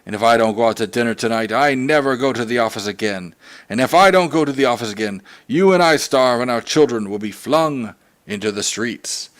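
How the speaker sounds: stern father warns his wife. Acted. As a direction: lay down the law to his wife. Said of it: "He went on sternly".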